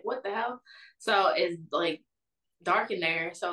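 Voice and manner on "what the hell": higher, mildly panicked disbelief; retold panic. Left alone in the dark, retold mild panic. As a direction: replay a bewildered, worried reaction. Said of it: "I'm really panicking".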